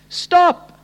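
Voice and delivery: very high, falling cry; desperate plea. Acted. Preacher voicing the prophet facing God's wrath, desperate. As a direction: beg God to halt, voice leaping up. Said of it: "the utter desperation of a heart".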